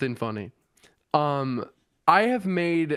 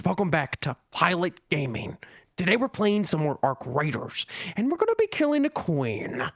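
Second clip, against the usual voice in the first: pilot voice. Pretend. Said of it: "my voice changer, like, where I sound like a pilot".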